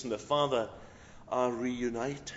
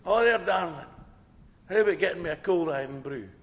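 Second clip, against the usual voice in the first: hollered order, raised pitch easing off; mock shout; 3 semitones higher, 4 dB louder than usual. Young Scottish Ned ordering from the waitress, joking shout. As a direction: call out roughly to the waitress, in fun. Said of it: "sits down and shouts".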